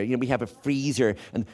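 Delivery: mock American twang; put-on American accent. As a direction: show off like a returned Yank with American twang. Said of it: "using an American twang".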